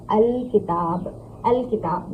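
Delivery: "अल किताब" opened with a clear "a" before the l; hamza pronounced. Shown as a demonstration. Teacher showing the added hamza, voiced "a" opening "अल किताब". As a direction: sound the first vowel of "अल किताब" carefully. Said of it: "उसके शुरू में हमज़ा लगा".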